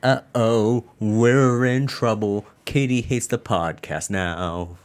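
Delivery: slow mock alarm, high and loud; drawn-out teasing uh-oh.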